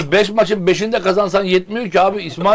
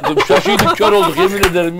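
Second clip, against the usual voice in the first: nervous laugh. Real, not acted. Mock shock over the camera.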